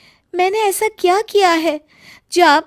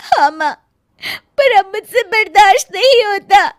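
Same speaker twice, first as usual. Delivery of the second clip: tearful; 4 semitones higher, 3 dB louder than usual. Acted. Crying daughter to mother.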